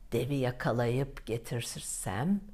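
low soft musing on yakalayıp; worried musing. Acted. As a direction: ponder yakalayıp quietly to himself. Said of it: "kara kara düşünmüş". (endişeyle yakalayıp diye düşünerek)

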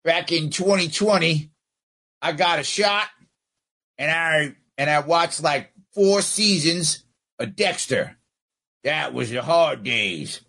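a hint of a rambling old prospector; old man voice. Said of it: "sit back and go".

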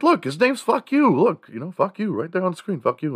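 put-on very high, eager pleading kid; eager kid explaining. Boy showing dad the screen, high and eager. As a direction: insist like a kid who thinks he's right.

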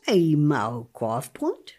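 put-on slow, rising greeting of an old friend; drawn-out delighted hello; happy to see them. Shown as a demonstration. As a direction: say the name like you've missed them for years. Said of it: "pronounce it as if you're happy to see this person".

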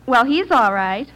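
"he's" singled out, slow delivery; stress on he's. Shown as a demonstration. Contestant repeating it for the quizmaster, emphasis on "he's". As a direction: lean on "he's" as if somebody else isn't, ending on a rise. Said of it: "emphasis on he".

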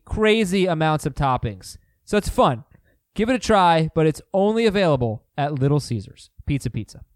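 upbeat, bright commercial read. Acted. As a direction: sell it like a radio spot. Reads a Little Caesars ad.

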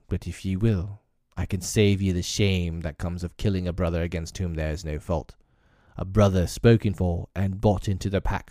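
proud aging pack leader speaking to the council; a lightly voiced old wolf chief making his stand. Akela pleads for the man cub.

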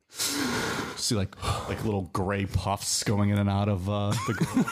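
raspy smoker's voice; smoker's rasp. Pretend. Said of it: "the smoker's raspy voice".

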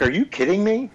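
high, mock disbelief; the wife reacting to his thirty-two days, in imitated disbelief; incredulous. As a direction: imitate the wife's stunned retort. Wife's incredulous retort, retold.

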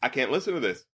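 mumbled aside. Retold or imitated. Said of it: "I'm like".

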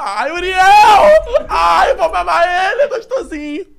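high, slow, shouted mock swooning over Uriel; laughing mock-crying shout of adoration; hammed-up squeal. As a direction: squeal with laughter like a smitten fan. Hams up affection for guest.

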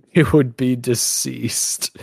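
slow, drawn-out mock-solemn echo; teasing slow-motion repeat. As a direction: parrot it back slowly, word by word. Mockingly echoes co-host's grave line.

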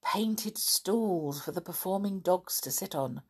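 lively, expressive storybook reading; storyteller voice, leaning on key words; children's story narration. A narrator's reading. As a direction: read it to children with animated dialogue and dramatic pauses. Reads a children's story aloud.

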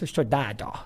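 lightly voiced carioca Dado, barely any accent; mild mock carioca line; father's failed carioca. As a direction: imitate a dad who won't do the accent. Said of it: "é só tu fazer o carioca".

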